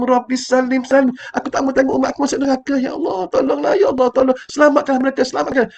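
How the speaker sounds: fervent, imploring cry to God; pleading prayer. Retold or imitated. Prophet pleads with God to save his people, fervently. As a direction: beg for the ummah's safety. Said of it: "Apa Nabi kata?".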